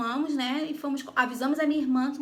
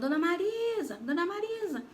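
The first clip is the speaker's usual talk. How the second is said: retold shout; 6 semitones higher than usual.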